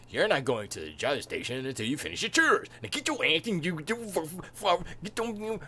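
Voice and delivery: a lightly voiced stern uncle; stern Uncle Owen. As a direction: order the kid to his chores. Uncle Owen scolding Luke.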